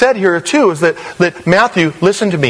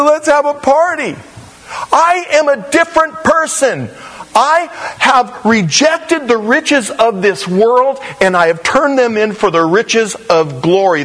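higher, overjoyed new man; joyful convert; 4 semitones higher than usual. Retold or imitated. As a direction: let the joy burst out of a changed man. Matthew voiced, joyful convert.

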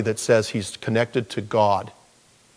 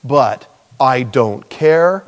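defiant sinner; 4 dB louder than usual. Retold or imitated. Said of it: "This is somebody who says".

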